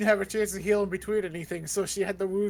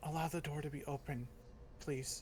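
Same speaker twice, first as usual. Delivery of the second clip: hushed, very quiet, soft, just-audible voice; 5 semitones lower, 15 dB quieter than usual. Voicing a character asking for the door to stay open: very quiet voice. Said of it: "just very quietly".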